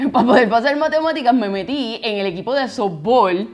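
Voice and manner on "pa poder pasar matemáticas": laughing through "pa' poder pasar matemáticas". Real, not acted. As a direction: laugh while repeating the phrase. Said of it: "repeats it laughing".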